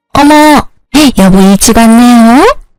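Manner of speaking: coquettish, sweet, cutesy wheedling voice. Reading a story, the mother-in-law greets her returning husband: coquettish sweet voice. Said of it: "애교 섞인 목소리로 바뀌었습니다".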